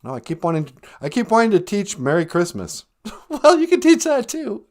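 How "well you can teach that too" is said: put-on high, loud old lady voice; grandma character voice. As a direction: chirp it like a sweet old granny. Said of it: "Nana Bonjour".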